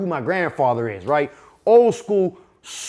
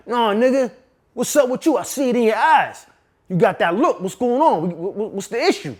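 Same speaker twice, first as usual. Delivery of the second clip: knowing grandfather; 3 semitones higher than usual. Retold or imitated. Grandpa to grandson, suspicious probing voice. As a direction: press him, you can see it in his eyes. Grandfather reads his eyes.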